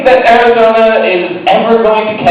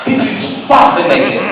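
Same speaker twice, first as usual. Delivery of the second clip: put-on thick Russian accent. Spy boss praising Sergei, Russian accent. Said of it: "thick Russian accents".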